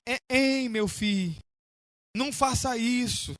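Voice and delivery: soft, mildly tearful imitation of grandmother; understated plaintive entreaty; tearful pleading. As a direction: beg quietly, as a weeping grandmother would. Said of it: "Se ajoelhou diante de mim chorando".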